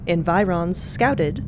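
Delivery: usual speaking voice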